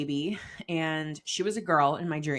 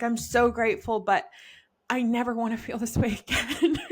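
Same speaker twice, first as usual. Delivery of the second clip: higher, half-laughing confession; laughing exasperation; 5 semitones higher than usual. Retold or imitated. Admitting pregnancy is hard, laughing. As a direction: laugh through the grumble. Quoting mixed feelings.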